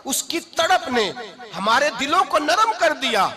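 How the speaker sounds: high, emphatic preacher's delivery; impassioned preaching. Acted. Preaches with emotion. (जोशीली, ऊँची आवाज़ में तक़रीर)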